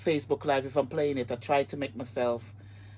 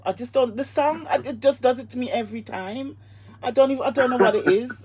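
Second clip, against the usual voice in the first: tearing up; 8 semitones higher, 5 dB louder than usual. Real, not acted. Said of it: "I'm just tearing up".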